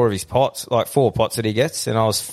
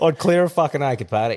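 laughing while shouting it out; 4 semitones higher than usual. Real, not acted. Hyped retelling a boat fight.

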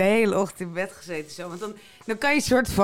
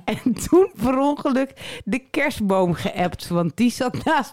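reading aloud; much slower than usual. Acted. Reads a listener's fragment aloud.

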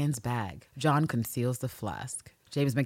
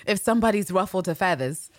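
lightly imitated co-host's character voice; a hint of someone else's acting style; Terrence; 3 semitones higher than usual. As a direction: play it as a light impersonation. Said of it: "do my best Terrence impersonation".

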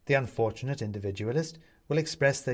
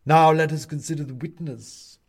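high, loud announcement; pompous owl judge; 5 semitones higher, 9 dB louder than usual. Acted. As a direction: turn the court's attention to the witness. Owl turns to witness.

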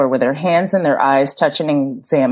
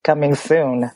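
sleepy husky good morning. Real, not acted. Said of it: "I'm really taking advantage of this morning voice".

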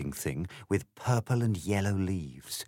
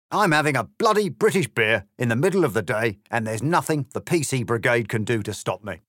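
high, louder, cocky grinning cat; smug cat; 3 semitones higher, 5 dB louder, faster than usual. Acted. The grinning cat answering Alice with a swagger. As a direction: toss it off like a swaggering pub cat. Cat character voiced in story.

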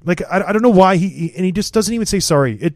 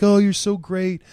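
gushing mock praise; hammed-up flattering fan; fawning flattery; 2 semitones higher than usual. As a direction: play the sycophant, all sugar. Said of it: "kissed his behind for, like".

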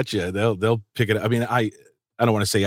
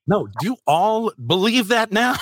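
high, laughing incredulous retort; laughing disbelief; 12 semitones higher than usual. Retold or imitated. Dad answering his daughter, high laughing disbelief.

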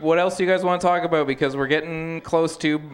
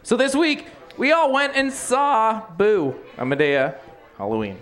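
host intro voice; 3 semitones higher than usual. Shown as a demonstration. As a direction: redo the intro like a show host. Redoing the show intro.

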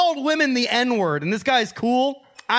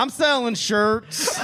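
pull string toy; slower than usual. Pretend. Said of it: "I was repeating".

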